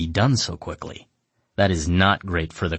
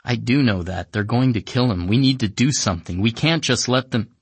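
shaky, higher, urgent pleading; agitated fear; 5 semitones higher, 4 dB louder than usual. Acted. Emika frightened about Wajim, agitated voice. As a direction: push it out scared and upset. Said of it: "She starts shaking".

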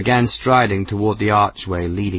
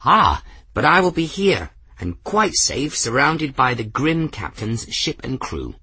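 put-on high, airy eccentric old gentleman; old man voice; 5 semitones higher than usual. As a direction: play a whimsical elderly wizard. Narrator voices Ferris.

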